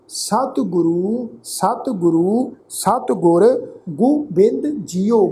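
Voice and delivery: slow, measured Gurbani recitation; scripture recitation. Acted. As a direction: recite each phrase deliberately, with pauses and drawn-out vowels. Recites scripture between explanations.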